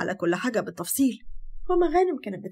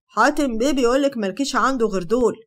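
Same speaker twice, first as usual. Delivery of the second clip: mocking; 4 dB louder than usual. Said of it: "وهو بيقول بسخرية".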